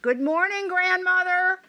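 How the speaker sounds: put-on high sing-song girl's greeting; high calling girl's voice; little girl calling. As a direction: call out brightly like a small girl. Red Riding Hood calls out.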